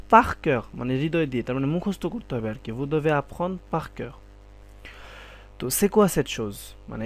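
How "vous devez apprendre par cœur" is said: teacher demo; slow emphatic model. Shown as a demonstration. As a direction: say each word for learners to catch. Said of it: "teacher models French".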